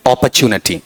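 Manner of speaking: अपॉर्चुनिटी with the ending नटी, not निटी; correct pronunciation. Shown as a demonstration. Teacher repeating the right form for the class. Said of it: "निटी या नटी?".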